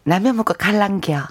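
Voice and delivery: Gyeongsang dialect, falling ending; 경상도 사투리. Shown as a demonstration. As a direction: say it with a Gyeongsang lilt. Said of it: "경상도 버전으로 왔습니다". (경상도 사투리로)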